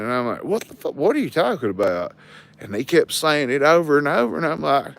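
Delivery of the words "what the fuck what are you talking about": higher-pitched mock disbelief; baffled retort. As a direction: retell a baffled comeback. Retelling his baffled reply in quarrel.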